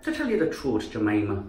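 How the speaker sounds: light Irish lilt; Irish accent. Shown as a demonstration. Speaker addressing Jemima in demo, Irish accent. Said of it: "even Irish can sound pretty".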